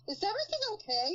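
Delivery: mock concern. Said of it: "turn around and say".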